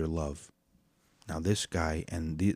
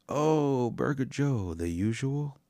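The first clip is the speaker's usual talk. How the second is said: cheery greeting; 7 semitones higher, slower than usual. Retold or imitated. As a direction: greet a favourite regular with joy. Worker greets regular caller.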